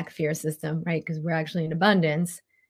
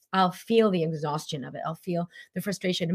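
normal talking voice

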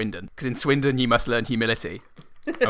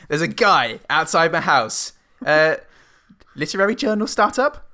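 alarmed reporter; 5 semitones higher, 4 dB louder than usual. Retold or imitated. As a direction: burst in breathless with news. Acting her alarmed newsroom report.

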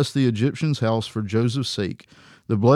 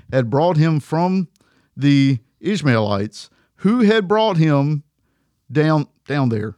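slow, heavy stress on "brought" and "had brought him"; overly emphatic reading; slower than usual. Real, not acted. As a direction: lean too hard on every word of the scripture. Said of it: "I got a little too emphatic about my reading".

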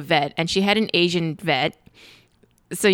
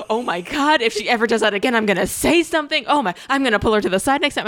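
outraged supportive friends; 3 semitones higher than usual. Retold or imitated. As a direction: imitate friends up in arms for you. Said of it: "they're like".

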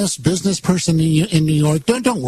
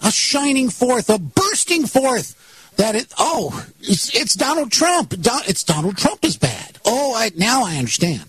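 mock epiphany; 4 semitones higher than usual.

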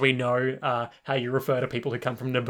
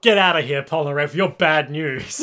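loud, hammed-up telling-off; mock angry dismissal; 5 dB louder than usual. The group kicks Polnareff out, mock angry dismissal. Acting friends rejecting Polnareff.

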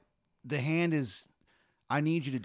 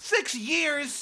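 surprised; 6 dB louder than usual. Real, not acted. Hears the hand terrorized Austin.

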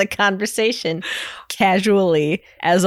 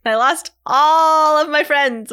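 laughing cry; 7 semitones higher, 3 dB louder, slower than usual. Pretend. Mock sobbing over lost friends.

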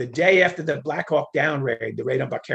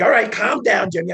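mock calm-down; 6 semitones higher, 6 dB louder than usual. Official calming him.

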